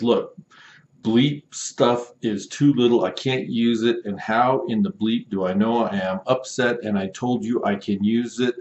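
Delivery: a customer's mock indignant rant; mock angry customer. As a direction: read it like a fed-up buyer. Angry customer message read aloud.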